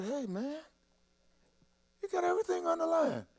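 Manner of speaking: high, quiet squeak of held-in laughter; choked-up amusement. Retold or imitated. Preacher retelling a funny Bible story, choked with amusement. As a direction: squeeze the words out through rising amusement.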